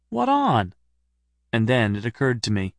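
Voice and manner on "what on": much higher demanding question; sharp demand. Acted. Narrator demanding of Stephen, sharply and higher. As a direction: press him hard for an answer.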